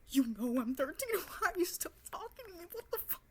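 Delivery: loud, high, fast and laughing; laughing outrage. Retold or imitated. Telling the creep off, laughing outrage. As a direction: fire it at him half laughing. Confronting the older man.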